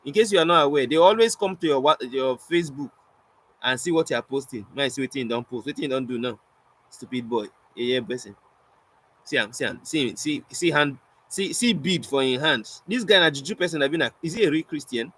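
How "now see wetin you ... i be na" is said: snide gossip. Acted. Online watchers gossiping over his posts, snide muttering.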